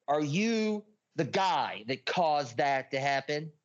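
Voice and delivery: slow, deliberate accusing question; retold hateful accusation. Confronting his brother over the world's pain, slow retold hatred. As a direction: draw it out with conviction, understated hatred. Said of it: "I said it with, like, conviction and hatred".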